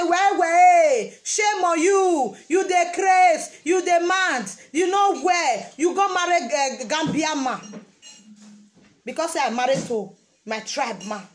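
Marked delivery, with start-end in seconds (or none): 0.0-7.8 slow, loud imitated telling-off with yelled bits; mock scolding. Mocking a critic who shames a woman for marrying a Gambian man, loud mock scold. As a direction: ham up a judgmental scold. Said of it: "I come say".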